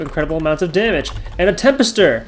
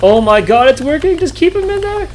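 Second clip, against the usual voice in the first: excited shouting; 5 semitones higher than usual. Real, not acted. Gamer cheers his combo against Mad Eltis. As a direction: shout as the combo keeps landing.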